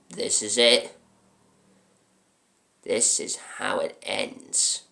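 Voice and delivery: deliberate, weighted pronouncement; grim threat. Acted. Cop with revolver in a man's mouth, grim threat. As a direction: hit hard, then slow right down.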